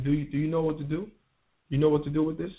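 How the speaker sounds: lightly imitated Jamaican accent. Jamaican dealer sounding out a new young seller, in a light Jamaican accent. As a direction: put on a low-key Jamaican accent. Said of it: "in a Jamaican accent".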